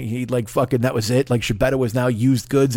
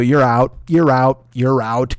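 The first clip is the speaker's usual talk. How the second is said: mock judge ruling; 2 semitones lower, 3 dB louder, slower than usual. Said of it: "review every single fucking drug case and go".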